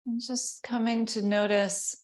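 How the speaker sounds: unhurried meditation guide, long pauses between phrases; guided meditation. Real, not acted. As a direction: ease them into settling, leaving space.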